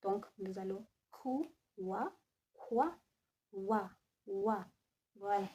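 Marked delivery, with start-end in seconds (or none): 1.8-2.1 wa isolated, w gliding into a; sound demonstration. Shown as a demonstration. Teacher breaking down quoi for the class, wa sounded alone. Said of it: "brings about the sound wa". 3.5-4.6 wa, wa as separate single syllables; sound demonstration. Shown as a demonstration. Teacher drilling the sound of O and I, wa repeated clearly. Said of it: "brings about the sound wa".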